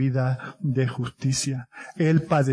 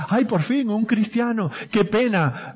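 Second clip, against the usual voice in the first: mock disappointment; 5 semitones higher than usual. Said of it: "Cuando alguien me dice".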